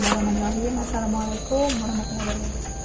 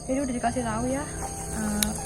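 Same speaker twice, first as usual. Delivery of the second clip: nervous night vlog whisper; 5 dB quieter than usual. Real, not acted. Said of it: "saya deg-degan aku di sini".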